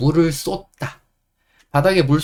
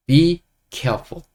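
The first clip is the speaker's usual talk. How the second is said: slow model phrase; 4 semitones higher, 3 dB louder, much slower than usual. Shown as a demonstration. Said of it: "영어로 이렇게 말하시면 됩니다".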